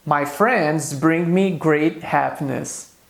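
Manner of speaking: slow, careful example for learners; slow model sentence. Shown as a demonstration. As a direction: read it slowly, word by word. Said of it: "Eu posso dizer em inglês". (frase lenta para os alunos)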